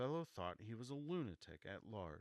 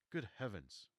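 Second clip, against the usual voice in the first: surprised; 3 semitones higher, 4 dB louder than usual. Acted. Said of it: "said Ogilvy".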